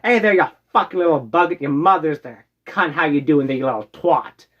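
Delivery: cheeky put-on British banter; playful imitation British accent; mock British accent. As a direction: greet a mate with insults in a British accent. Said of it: "in England".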